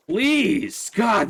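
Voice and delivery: high, loud strained plea; desperate plea. Real, not acted. Player pleading with the horse, desperate shout. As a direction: cry out in desperation.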